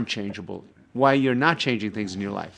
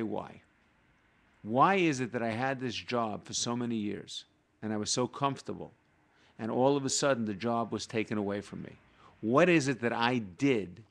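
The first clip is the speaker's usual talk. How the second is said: calm questioning. Retold or imitated. Kabbalist asking why he lost his job, calm and inquisitive. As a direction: ask it gently, without blame. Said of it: "There's no anger there".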